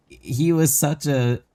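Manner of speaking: slow, high-pitched gushing praise; over-dramatized gushing. Retold or imitated. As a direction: lay the drama on thick. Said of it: "over-dramatized version of it".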